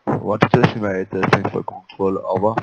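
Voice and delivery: fast loud radio readback; over the radio. Real, not acted. Pilot signs off over radio.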